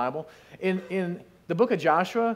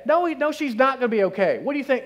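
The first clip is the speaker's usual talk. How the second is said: mocking disbelief; 6 semitones higher, 4 dB louder than usual. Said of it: "mourners argue with Jesus".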